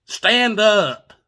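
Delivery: very loud, high holler, acting the aunt; yelled command. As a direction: yell it across the creek. Aunt yells at splashing child.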